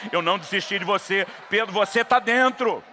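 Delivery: loud, rising preacher's declaration; emphatic shout. Acted. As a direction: proclaim it with full force. Jesus assuring Peter, preached. (proclamação gritada e enfática)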